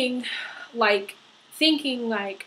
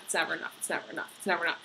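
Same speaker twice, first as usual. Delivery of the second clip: each "it's never enough" softer, sinking to a whisper; fading echo; 4 semitones lower, 9 dB quieter, much faster than usual. Shown as a demonstration. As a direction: let the phrase die away like an echo. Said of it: "repeated, fading echo".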